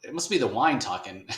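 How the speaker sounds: street buddy. Retold or imitated. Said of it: "And they're like".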